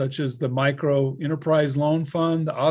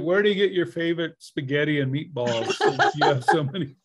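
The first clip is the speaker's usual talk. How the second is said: laughing while asking; 3 semitones higher, 4 dB louder than usual. Real, not acted. Host laughing while rephrasing question.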